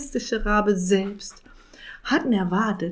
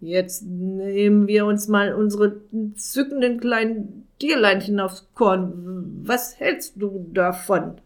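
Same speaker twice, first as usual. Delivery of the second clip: put-on drunk slurring. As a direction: slur it like a drunk. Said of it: "lallte der Zauberer".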